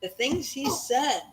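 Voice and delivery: steady read-aloud storytelling voice; story narration. A narrator's reading. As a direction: read it evenly to the kids at bedtime. Parent reading a chapter aloud.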